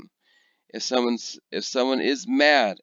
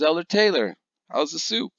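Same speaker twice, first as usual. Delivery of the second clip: higher, light hostess asking; 8 semitones higher, 3 dB louder than usual. Retold or imitated. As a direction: sweetly ask about the soup. Hostess asks about soup.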